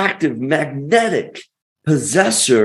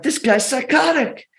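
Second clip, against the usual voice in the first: disbelief; 9 semitones higher than usual. Retold or imitated. Son overhearing dad's odd recording.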